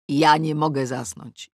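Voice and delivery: plain reading voice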